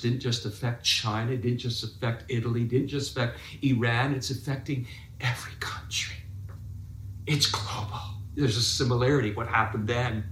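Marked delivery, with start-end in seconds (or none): 4.1-8.0 hushed, breathy aside to the congregation; softer whisper; dramatic whisper. Acted. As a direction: drop to a whisper for weight. Pastor stresses global reach.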